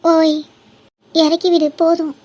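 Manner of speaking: loud, insistent call to stop; calling out an order. Acted. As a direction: call out sharply to be let down. Demands to be put down.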